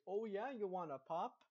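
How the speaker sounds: lightly mimicked Minnesotan accent; playful imitation of Minnesotan speech. Texan student imitating locals offering a pop, light Minnesotan accent. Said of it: "kinda funny whenever they say".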